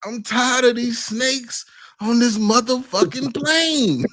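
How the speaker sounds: high-pitched hammed-up movie outburst; Samuel Jackson. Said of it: "he played Samuel Jackson".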